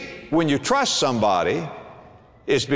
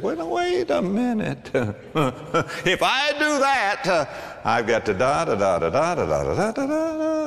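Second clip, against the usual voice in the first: a lightly voiced hesitating man, much higher; mock the stalling doubter, pitched up; doubting man; 4 semitones higher than usual. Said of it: "he said".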